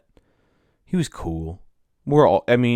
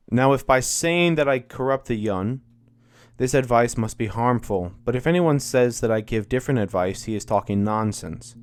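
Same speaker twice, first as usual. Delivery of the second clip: reading Plato aloud; 2 semitones higher than usual. Acted. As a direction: read it like Socrates pleading before the court. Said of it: "doing a book reading from Plato".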